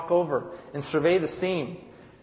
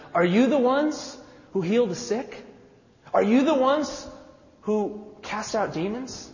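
eager questioning crowd; 6 semitones higher than usual. Acted. Townspeople eagerly questioning the disciples.

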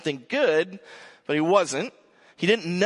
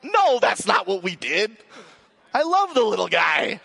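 louder, higher, eager to take it back; emphatic denial; 5 semitones higher, 6 dB louder than usual. Real, not acted. Preacher assuring the congregation he loves his son, loud. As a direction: quickly correct the joke with feeling. Takes back the joke loudly.

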